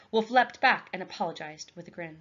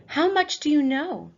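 louder, high, pressing question; demanding question; 8 semitones higher, 7 dB louder than usual. Acted. Raven leader questioning the captive boy, stern.

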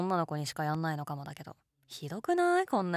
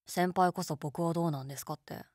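ordinary talk, nothing marked

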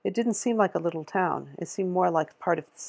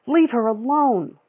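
higher, louder, slow and deliberate; firm angry demand; 6 semitones higher, 6 dB louder, slower than usual. A narrator's reading. Lila repeats her demand to the store lady, slow and hard. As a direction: spell it out one word at a time.

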